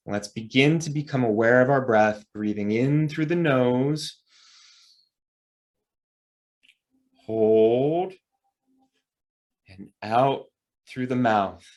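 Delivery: measured breath cues with long pauses; guided breathing. Real, not acted. Instructor leading listeners through breathing in and out, guided breathing. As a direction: draw out the cues, pausing for each breath.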